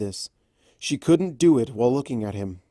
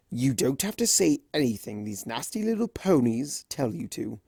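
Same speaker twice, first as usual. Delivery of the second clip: Discord voice; 2 semitones higher than usual. Acted. Discord soothing.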